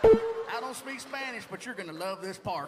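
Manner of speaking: Gatorland ad guy. Retold or imitated. Mocking Gatorland ad voice.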